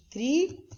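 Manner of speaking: "trissílaba" broken up with pauses; silabado. Shown as a demonstration. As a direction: say "trissílaba" as tri, sí, laba. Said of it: "tem três sílabas". ("trissílaba" separado, com pausas entre as partes)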